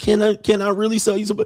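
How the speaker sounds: put-on, very high, near-tearful, on the verge of tears. Imitating a woman on the street making an offer: mock pleading, near tears. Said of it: "She's gonna almost cry".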